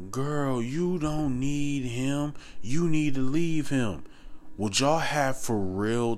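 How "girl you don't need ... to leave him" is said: higher, slow, drawn-out acted voice; quoted girlfriend advice. Woman advising a friend to leave him, slow and higher. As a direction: play a friend urging her, drawn out and higher.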